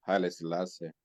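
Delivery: ordinary delivery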